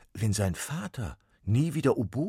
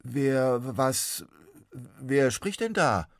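put-on higher, louder, slow frightened boy; startled boy; 7 semitones higher, 8 dB louder, much slower than usual. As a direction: voice young Max, unsure who speaks. Max asks, startled.

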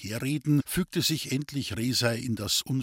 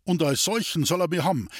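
higher hearty call; 5 semitones higher, faster than usual. Acted. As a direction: announce yourself proudly. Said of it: "rief Wendel".

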